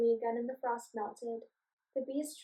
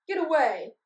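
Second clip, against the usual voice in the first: shout; 4 semitones higher, 10 dB louder than usual. Acted. Goblin shakes wand at bee.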